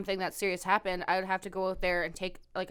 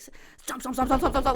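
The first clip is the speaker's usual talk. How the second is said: mock stomping; 4 semitones higher, 4 dB louder than usual. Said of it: "tiny little steps pretending to be in heels".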